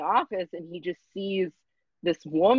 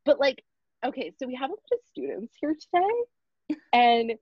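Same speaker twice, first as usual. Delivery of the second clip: eager intern voice; 3 semitones higher than usual. Retold or imitated. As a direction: sell it brightly like a keen student. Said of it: "so she's like".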